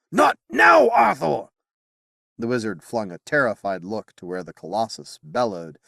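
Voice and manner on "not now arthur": much higher and louder cry; urgent shout. Acted. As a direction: stop him with a shout. Wizard pleading with the king.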